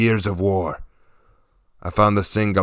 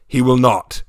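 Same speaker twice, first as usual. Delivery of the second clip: firm; 3 semitones higher than usual. Acted. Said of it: "I said firmly".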